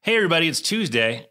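announcer take two. Shown as a demonstration. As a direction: sell the greeting like a show host. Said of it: "let me try again. Take two".

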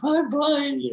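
very high, squeaky imitation of crying; hammed-up weepy squeak, half laughing at yourself; mock tearful. Crying customer reassures the hairdresser, high mock-tearful squeak. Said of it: "I just cried and I cried".

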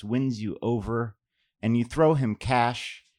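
measured poem reading to an audience; poetry reading. Acted. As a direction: poet reading her own poem. Reads own poem aloud.

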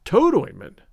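"Toad ointment?" tossed back in distaste; shocked echo. A narrator's reading. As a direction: recoil at the words. Janet echoes in disgust.

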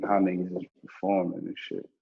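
ordinary delivery

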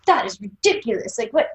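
hammed-up French boss; bad French accent. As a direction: scoff as a typical Frenchman, poor French accent. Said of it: "I can't do a French accent".

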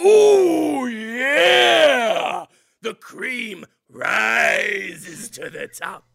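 loud, drawn-out lustful cry; over-the-top moaning holler; mock ecstatic wail. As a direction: belt it slowly in hammed-up ecstasy. Mock seduction builds to climax.

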